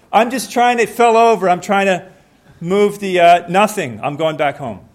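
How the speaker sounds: loud, high, stammering cover-up; flustered excuses. Acted. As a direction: babble excuses after being caught. Caught neighbor stammers excuses.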